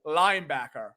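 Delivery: low, fake American accent. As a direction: try the word in American. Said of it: "linebacker in American".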